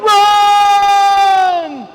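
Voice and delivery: sudden high, loud shout; mom's shout. Retold or imitated. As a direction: bark the order like a panicked mother. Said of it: "She's like".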